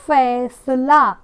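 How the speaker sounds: फैसला drawn out slowly with an f sound; फैसला slowly as faisla; slow model reading. Shown as a demonstration. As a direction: stretch फैसला for the class. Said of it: "फैसला ऐसे पढ़ेंगे".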